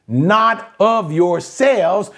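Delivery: "not of yourselves" slowly, weight on "not"; emphatic. Shown as a demonstration. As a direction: lean firmly on "not" in "not of yourselves". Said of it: "the emphasis".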